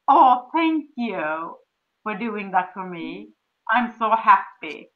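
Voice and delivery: slow, drawn-out thanks; grateful thanks. Shown as a demonstration. Wife thanking her husband Dirk, slow and grateful. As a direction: pour gratitude into each word, slowly. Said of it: "That's what I say always".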